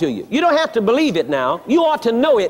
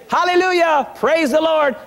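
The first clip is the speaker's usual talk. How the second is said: raised exultant praise, lightly acted; mock jubilation; 4 semitones higher than usual. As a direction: praise like someone just released from paralysis. Acting out a healed person's rejoicing.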